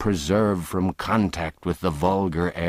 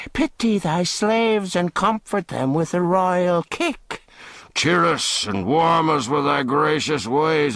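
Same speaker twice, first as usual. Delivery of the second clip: higher, hammed-up begging; mocking pleas; 4 semitones higher than usual. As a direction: beg with mock reverence. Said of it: "ironical wailings and mocking supplications".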